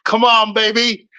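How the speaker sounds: lightly mimicked slow, coaxing cornerman; Malik Scott. Yes-man coach to his fighter in the corner, mock coaxing. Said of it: "That's how he says that".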